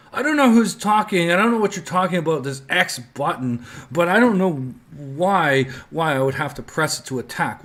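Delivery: a cheeky hero playing dumb; indignant bard. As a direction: bard pretending not to understand the tutorial narrator. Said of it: "the bard looks around and goes".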